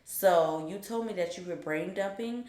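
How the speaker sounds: imitating a stern dean, measured and controlled. Dean telling a student she lied, stern. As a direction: lay out the charges quietly and deliberately. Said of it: "stern at this point".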